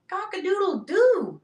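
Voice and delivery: playful high-pitched cock-a-doodle-doo; rooster crow. Pretend. Seller showing off rooster spoons, rooster crow.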